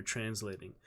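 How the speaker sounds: ordinary delivery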